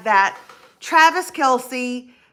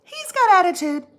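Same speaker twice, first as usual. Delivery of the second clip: got hit high and hard; "got" pitched up, the rest falling; stress on got; 7 semitones higher than usual. Real, not acted. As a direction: punch the word "got" in "He's got attitude". Stressing her point about Al.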